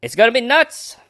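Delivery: high, loud goofy outburst; silly excited squeal. Pretend. Host hyping the reading to listeners, silly excited squeal.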